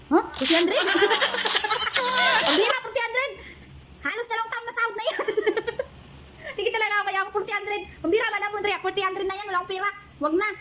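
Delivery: high, laughing disbelief. Real, not acted. Helper laughing to viewers about boss's forty hundred. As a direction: laugh through the words in disbelief.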